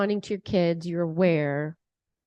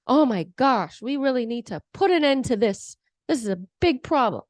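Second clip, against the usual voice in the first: louder, heated, protective outrage; coming in strong; 4 dB louder than usual. Retold or imitated. Parent storming in angry on the child's behalf. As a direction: charge in ready to make them pay. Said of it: "are you coming in strong".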